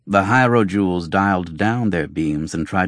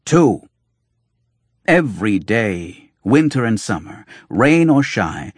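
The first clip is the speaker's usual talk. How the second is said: excited; 3 semitones higher, 5 dB louder than usual. Acted. Doctor exclaims over the coins.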